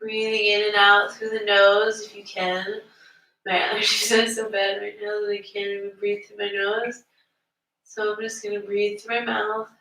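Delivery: unhurried yoga teacher leading breathwork; yoga breathing guidance. Real, not acted. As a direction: guide the class gently into the breath. Guides the class into breathing.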